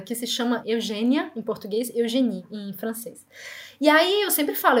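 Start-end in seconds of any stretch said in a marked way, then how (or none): none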